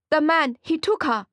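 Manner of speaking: high, loud, panicked blurt; frightened. Acted. Frightened shop owner.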